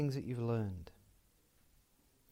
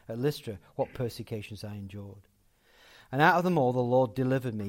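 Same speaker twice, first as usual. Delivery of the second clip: scripture reading; 3 semitones lower, 4 dB louder than usual. Real, not acted. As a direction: read the passage out, punching each opening. Reads scripture aloud to congregation.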